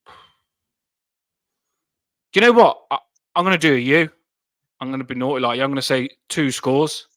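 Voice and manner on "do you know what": very slow, louder, stretched out; dramatic drawn-out. Pretend. Fan teasing his score prediction, slow dramatic drawl. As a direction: drag it out for suspense.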